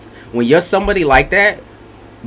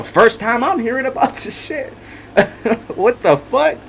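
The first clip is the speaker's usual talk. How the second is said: laughing; 8 semitones higher than usual. Real, not acted. Laughing at the cheater's switch.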